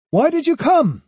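high, loud angry snap; snapped. A narrator's reading. Swordsman confronting the girl who followed him, snapping. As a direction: snap the question at her. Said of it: "Kojiro snapped".

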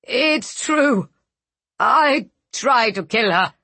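choked, gasped confession; gasping. Acted. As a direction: gasp it out with no air. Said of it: "gasped out".

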